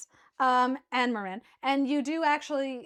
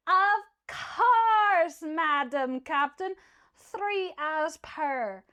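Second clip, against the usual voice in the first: playful reply; 4 semitones higher, 4 dB louder, much slower than usual. Acted. Merman answering captain.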